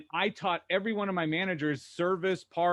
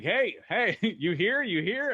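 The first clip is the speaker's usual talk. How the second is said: mild mock calling out, pitched up; retold yelling; 5 semitones higher, 3 dB louder, slower than usual. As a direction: act out hollering for someone across a lounge. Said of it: "start yelling this guy's name".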